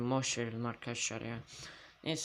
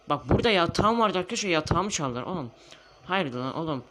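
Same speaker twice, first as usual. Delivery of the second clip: angry; 3 semitones higher, 5 dB louder than usual. Real, not acted. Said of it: "sinirliyim arkadaşlar ya".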